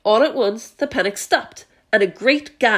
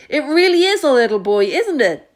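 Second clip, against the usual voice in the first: amazed fire chief; 4 semitones higher, 4 dB louder than usual. Acted.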